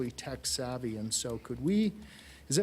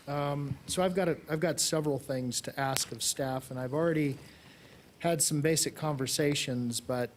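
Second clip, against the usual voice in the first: muffled behind a face mask; through a face mask. Real, not acted. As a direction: speak with a mask over the mouth. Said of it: "forgive the mask".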